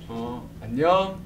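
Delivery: slow gentle Seoul-style 안녕; Seoul style greeting. Retold or imitated. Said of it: "서울스럽게".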